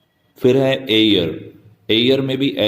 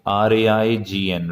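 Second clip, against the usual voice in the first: slow spelling out; slower than usual. Shown as a demonstration. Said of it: "रेन".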